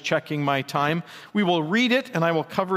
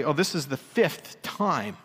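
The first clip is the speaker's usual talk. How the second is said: grudging mock complaint; slower than usual. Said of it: "not to say".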